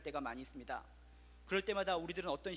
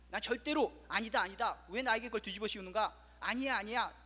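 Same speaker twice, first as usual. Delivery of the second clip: 억울한 부정; 5 dB louder than usual. Retold or imitated. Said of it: "엄청나게 부정을 한다는 겁니다".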